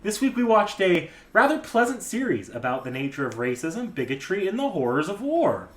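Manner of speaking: brightly delivered ironic introduction, pitch jumping up; mock pleasant. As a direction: announce it as if it were pleasant, barely keeping composure. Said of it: "can't keep a straight face and say pleasant".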